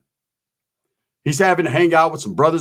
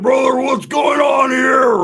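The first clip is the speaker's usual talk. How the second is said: panicked shout; 8 semitones higher, slower than usual. Retold or imitated. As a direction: yell like your mouth is on fire. Roach panicking over hot sauce.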